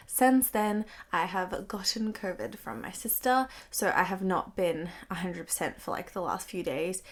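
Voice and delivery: stuffy, croaky sick voice; congested voice. Real, not acted. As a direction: speak through a blocked nose. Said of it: "I sound a bit congested and, like, croaky".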